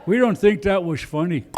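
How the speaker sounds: put-on lightly caricatured Native American accent. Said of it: "that's my Native American voice".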